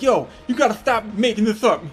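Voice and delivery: mock near-tears begging, rising to a squeak; angry pleading. Bully begging his classmates to stop, pitch climbing into panic. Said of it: "angry and he's spitting".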